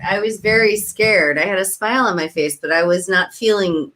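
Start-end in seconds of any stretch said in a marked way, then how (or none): 0.0-1.4 slightly raised voice, said again; a bit louder. Real, not acted. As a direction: repeat it a little louder on request.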